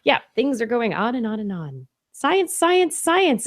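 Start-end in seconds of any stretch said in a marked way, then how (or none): 2.1-3.4 excited. Real, not acted. Excited exclamation.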